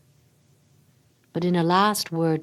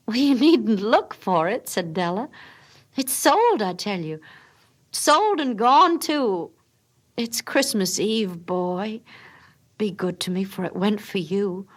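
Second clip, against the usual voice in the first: insist, half pleading; Della's voice; 4 semitones higher than usual. Acted. Wife defends selling her hair, higher and insistent.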